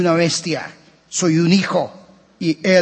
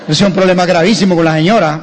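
joking alarm; 5 dB louder, faster than usual. Real, not acted. Joking about pointing mishap.

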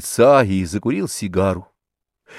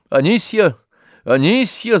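higher, raised call across the house; 9 semitones higher than usual. A narrator's reading. Barin calls Anisya to complain about Zakhar, raised call. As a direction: call the housemaid's name from another room. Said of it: "закричал Обломов".

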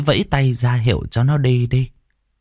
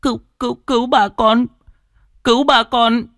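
high, tearful begging; clinging to the doctor, crying; sobbing plea; 12 semitones higher than usual. A narrator's reading. Boy clings to the doctor's leg, sobbing. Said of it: "mếu máo".

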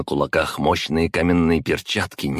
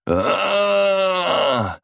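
long high scream of pain; burning body screaming. A narrator's reading. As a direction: howl of agony. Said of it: "Тело Глеба заорало от боли".

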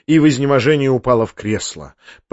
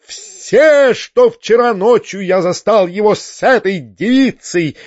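squealing rant; 8 semitones higher than usual. A narrator's reading. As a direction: shriek a self-righteous denunciation. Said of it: "визжал Фома".

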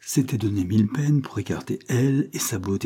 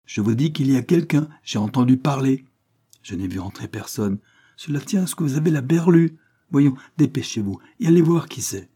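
insistent scolding; 5 semitones higher, 4 dB louder than usual. Acted. Cornélie insists to the maid.

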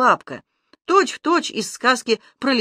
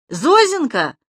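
puzzled mishearing; 7 semitones higher, 5 dB louder, slower than usual. A narrator's reading. Zhar mishears the lisp.

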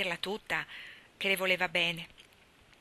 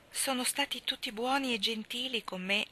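contented sigh; 5 semitones higher than usual. A narrator's reading. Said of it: "sospirò Anna contenta".

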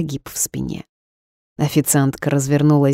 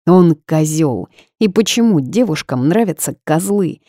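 usual speaking voice

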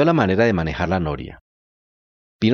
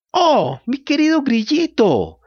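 high, slow, fond puppet voice; warm greeting; 14 semitones higher, 3 dB louder, slower than usual. Acted. Pinocchio greets his cricket friend, high and fond. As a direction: greet the dear cricket fondly, drawn out. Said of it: "saludándolo cálidamente".

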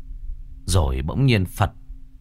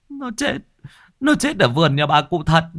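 frightened answer; 9 semitones higher than usual. Acted. Hoan answers where Hỷ died, high frightened blurt. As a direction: squeak it out in fright, then force it.

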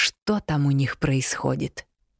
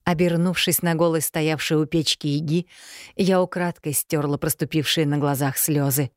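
plain reading voice

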